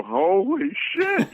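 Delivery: a fan floored at meeting a legend; breathless mock awe; starstruck gasp. Fan meeting a famous singer, retold.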